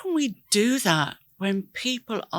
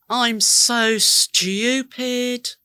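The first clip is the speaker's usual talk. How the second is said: self-scolding; 2 semitones higher, 3 dB louder, much slower than usual. Retold or imitated. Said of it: "Please don't say things like this to yourself".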